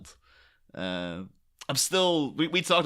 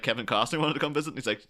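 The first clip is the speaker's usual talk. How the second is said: ordinary talk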